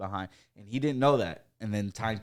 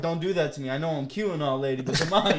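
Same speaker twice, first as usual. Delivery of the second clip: higher, playful cheeky scold; mock flirty scolding; 4 semitones higher, 4 dB louder than usual. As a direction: tease the lady. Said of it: "I'm like".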